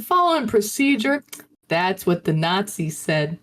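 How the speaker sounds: indignant questions in fake Southern; fake Southern accent. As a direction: push back in a put-on Southern voice. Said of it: "doing this, like, fake Southern accent".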